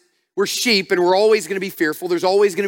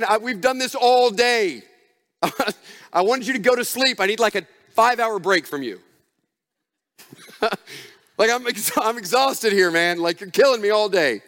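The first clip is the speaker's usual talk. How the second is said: exhausted, fed up. Retold or imitated. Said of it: "Is he saying".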